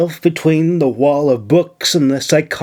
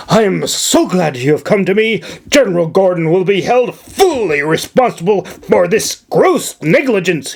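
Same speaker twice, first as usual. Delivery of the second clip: commanding governor; 5 semitones higher than usual. Acted. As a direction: bark orders at the servant, pitched up. Governor vows to punish general.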